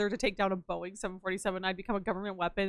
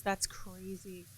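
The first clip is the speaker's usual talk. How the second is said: quiet disbelief; 3 semitones lower, 11 dB quieter, much slower than usual. Real, not acted. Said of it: "repeated slowly".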